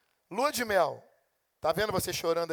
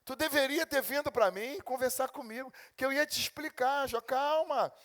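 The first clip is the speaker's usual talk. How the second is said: God rebuking Job; 5 semitones higher than usual. Retold or imitated. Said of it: "e dizer: Jó".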